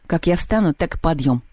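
mildly firm last word; understated, decisive reply; curt. Acted. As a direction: settle it, no argument. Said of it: "отрезал Антон".

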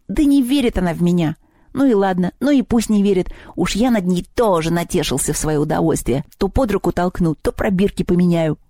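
lightly voiced grumbling goblin; grumble, then boast of your pranks; a hint of a huffy little goblin; mischievous house goblin.

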